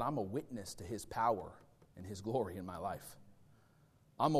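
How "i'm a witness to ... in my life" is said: low, soft, sincere witness; hushed testimony. Real, not acted. Preacher tells congregation of his own changed life, hushed testimony. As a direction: drop into a quiet, heartfelt confession.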